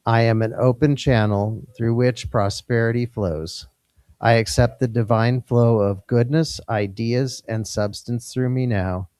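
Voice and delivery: measured affirmation for a group to join; spoken affirmation. Real, not acted. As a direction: lead the room in affirmation, phrase by phrase. Leads a congregational affirmation.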